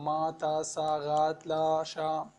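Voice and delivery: "ma, ta, sa, ra, tla, cha" syllable by syllable; syllable tongue-twister. Shown as a demonstration. Teacher demonstrating a syllable tongue-twister, "ma, ta, sa, ra, tla, cha" evenly separated. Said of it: "c'est pour le virelangue syllabe".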